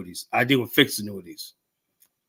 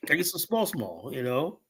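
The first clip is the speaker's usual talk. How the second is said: wheedling "some small, small" in a pleading, drawn-out plea; imitating a checkpoint cop's coaxing ask; mock begging cop; 4 dB quieter than usual. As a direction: play a police officer angling for a bribe.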